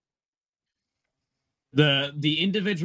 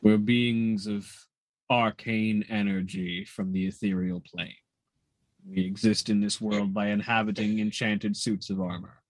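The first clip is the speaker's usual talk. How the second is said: ethereal armored bartender; 5 semitones lower than usual. Acted. GM voices the ethereal.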